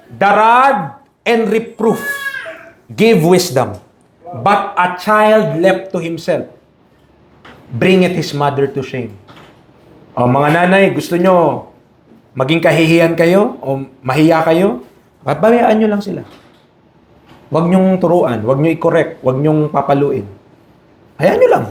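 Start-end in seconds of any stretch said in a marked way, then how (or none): 0.1-9.1 slow, solemn verse reading; slow solemn Bible reading; scripture reading. Acted. 21.2-21.7 sarcastic. Pretend. Sarcastic mock permissiveness.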